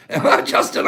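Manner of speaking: Justin, breathed out through a laugh; laughing name call. Shown as a demonstration. Calling out a viewer's name, laughing. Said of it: "I said your name a hundred ways".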